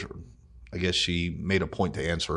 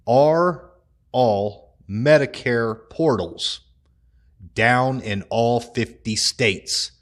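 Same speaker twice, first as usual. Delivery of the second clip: mock shouted question; 3 semitones higher, 3 dB louder, much slower than usual. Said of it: "You hear this lady scream out".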